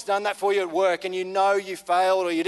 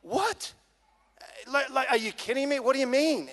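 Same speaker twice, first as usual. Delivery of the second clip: high, hushed mock astonishment; floored disbelief; 5 semitones higher, 3 dB quieter than usual. Mate learning someone took his blame, floored disbelief. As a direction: act out a stunned mate, pitch leaping on "What". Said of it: "he was floored. He was genuinely like".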